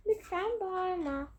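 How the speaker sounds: the other woman, slowly and softly; soft phone voice. Acted. (yavaş ve çok alçak sesle)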